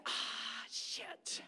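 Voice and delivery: whispered dismay; muttered realization. Retold or imitated. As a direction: whisper it under your breath. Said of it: "I was like".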